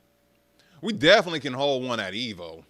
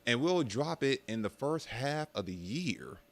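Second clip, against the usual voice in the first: lightly voiced PR statement, softer; mock PR spokesperson; 3 semitones higher, 6 dB quieter than usual. Company informing players about a new game, mock PR voice. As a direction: deliver a careful, softer mock company announcement. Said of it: "the best P R impression".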